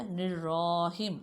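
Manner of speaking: نرراہیم with a clear r; teacher's model word; correct pronunciation. Shown as a demonstration. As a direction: say نرراہیم with r, not w. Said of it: "نرواہیم آپ نہیں پڑھو گے".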